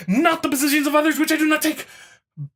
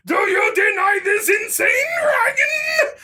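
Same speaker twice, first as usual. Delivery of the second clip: mocking challenge; 9 semitones higher than usual. Mock reading opponent's challenge.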